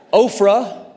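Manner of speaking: Ophrah said as OH-frah with a laugh; laughing, fix the name to Ophrah; Ophrah, said slowly and carefully; corrected name. Shown as a demonstration. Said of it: "almost Oprah".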